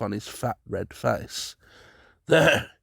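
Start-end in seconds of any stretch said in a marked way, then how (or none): 2.3-2.7 sharp loud exclamation; exclaiming. A narrator's reading. Sir Thomas recoiling from the spider, loud exclamation. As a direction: exclaim it in horror. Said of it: "he exclaimed".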